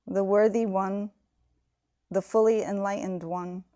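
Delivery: measured liturgical reading, even phrases with pauses; solemn, evenly paced invocation; formal recitation. Real, not acted. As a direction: recite it as a devotional homage. Recites the English homage.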